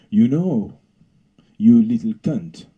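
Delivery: a hint of a contemptuous god; Zeus voice. Zeus insulting the bee, lightly contemptuous. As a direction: spit it at the bee. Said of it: "he said to her".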